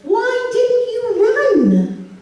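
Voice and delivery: slow, high, drawn-out scolding; dad scolding. Retold or imitated. Dad scolding his wife Michelle, slow and drawn out. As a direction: spell it out slowly like he's the reasonable one. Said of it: "he says".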